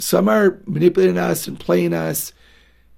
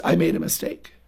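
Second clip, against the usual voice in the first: calm self-correction. Shown as a demonstration. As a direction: say it gently, owning the slip.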